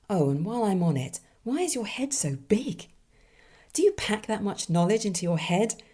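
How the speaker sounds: peeved hat with attitude, pitch jumping up; hat airing its grievances; grumbling talking hat. Acted. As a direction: read it as a put-upon hat complaining to its wearer. Voices a complaining hat from submission.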